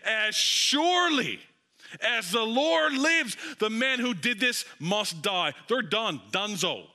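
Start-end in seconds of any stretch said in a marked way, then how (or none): 0.0-5.5 angry verdict. Acted. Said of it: "He's burning with anger and said".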